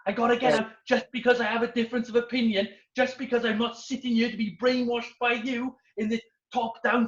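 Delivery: a touch of fuming, fast rant; mock-angry rant. Stuart ranting at the instructor, mildly fuming and fast. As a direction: rattle off the grievance like an indignant rebel. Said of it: "fuming. He was angry".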